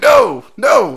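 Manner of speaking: high, loud frantic refusal; panicked no. Retold or imitated. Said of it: "I was like".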